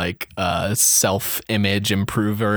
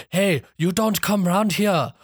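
higher mock-tough gang member; gang bat; 7 semitones higher than usual. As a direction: stake out turf like a West Side Story bat. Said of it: "gangs of bats meeting up and yelling at each other".

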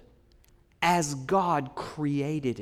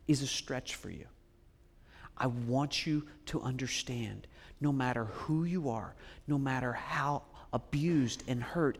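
tender pastoral; 3 semitones lower, 5 dB quieter than usual. Acted. Preacher speaking to abandoned listeners, soft and tender. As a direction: lean in gently to the wounded.

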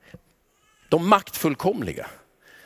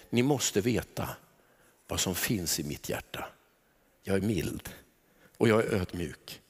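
soft Jesus; 10 semitones lower, 8 dB quieter than usual. Acted. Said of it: "Jesus bara tar ett steg tillbaka och säger".

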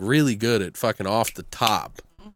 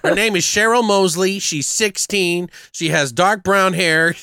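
louder, higher commandeering voice; commanding tough guy; 6 semitones higher, 3 dB louder than usual. Retold or imitated. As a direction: take over the broadcast like a cocky movie hero. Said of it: "had this commanding presence over".

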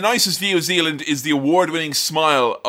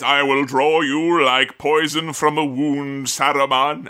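solemn Gandalf; slower than usual. Retold or imitated. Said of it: "he says".

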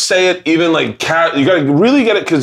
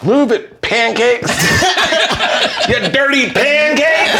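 laughing; 12 semitones higher, slower than usual. Pretend. Redoing the bit, laughing.

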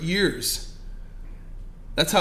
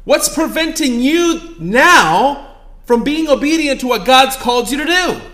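1 intense challenge; 8 semitones higher, 8 dB louder, slower than usual. Acted. Pointed challenge to congregation.

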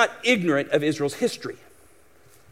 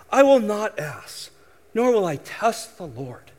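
false humility. Retold or imitated. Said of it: "false sense of".

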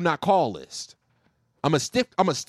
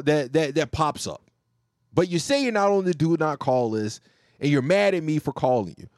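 calm patient explaining; 3 semitones lower than usual. Retold or imitated. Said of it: "I, I'm like".

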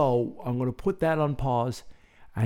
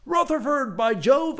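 high British exclamation, louder; exclaiming Englishman; 4 dB louder, slower than usual. Acted. Rutherford introducing himself to Noah, British exclamation. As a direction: burst out like an old English chap. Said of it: "exclaimed Rutherford".

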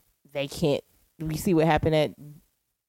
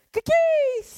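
laughing. Real, not acted. Laughing word play.

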